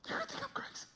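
tiny, very high hushed voice; redneck stranger confiding. Retold or imitated. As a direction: squeak it confidentially, barely audible. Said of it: "he looks him in the eye".

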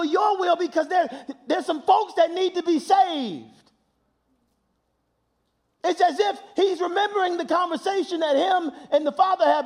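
high, loud preaching, ringing out; preaching at full force. Acted. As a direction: shout it to the back pew. Sermon climax, preaching at full force.

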